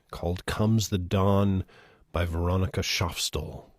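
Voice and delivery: measured, earnest poem recital; gentle reading of a poem. Acted. Reads a requested poem.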